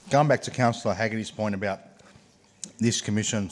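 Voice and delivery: talking around a hard mint; mint in mouth. Real, not acted. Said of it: "I've got a mint here that's really hard in my mouth".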